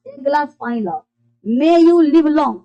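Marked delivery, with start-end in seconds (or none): 1.4-2.6 very slow, a bit louder blessing. Shown as a demonstration. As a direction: bless them slowly as an example. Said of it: "तो लंबी उम्र जियो". (धीरे-धीरे आशीर्वाद देना)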